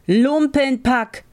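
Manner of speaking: drawn-out, high, scornful yell; angry shout. A narrator's reading. Farmer scolding his servants, drawn-out and high. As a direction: spit the insult at the servants. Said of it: "rief der Bauer".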